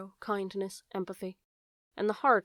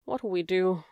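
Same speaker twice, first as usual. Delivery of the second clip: despairing question, still contained; wailing; slower than usual. Acted. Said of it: "wailed Cook".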